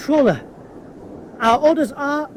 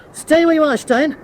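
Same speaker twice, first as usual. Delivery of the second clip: called order; 5 semitones higher, 4 dB louder than usual. Acted. Ordering down the voice pipe.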